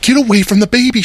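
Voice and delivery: high mock warning; retold warning. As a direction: shoo her off in a high voice. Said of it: "and I'm like".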